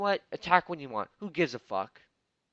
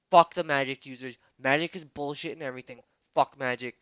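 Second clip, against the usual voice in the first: angry outburst; 5 dB louder than usual. Real, not acted.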